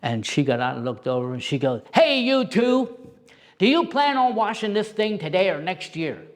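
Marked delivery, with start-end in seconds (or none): 1.9-6.2 raised-pitch nagging call, retold; mom calling out. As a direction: imitate a mother hollering over. Mom scolding the chatting pair.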